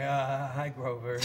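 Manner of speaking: small, low, bashful hello; lightly played awestruck child, hesitant; starstruck kid. Grown man meeting childhood puppet hero, bashful kid hello. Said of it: "I really became a kid".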